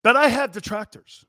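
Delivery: pompous mock pledge; mocking solemn declaration. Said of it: "I just want all of you to know".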